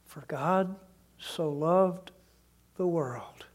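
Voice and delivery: dropping to a soft whisper by the end; hushed scripture. Real, not acted. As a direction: let the verse fade into a whisper. Quoting John 3:16 softly.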